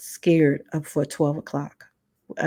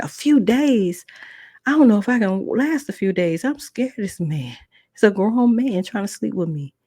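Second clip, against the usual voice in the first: panicked; 5 semitones higher than usual. Retold or imitated. Niece to her aunt, high frightened panic. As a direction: plead in rising alarm.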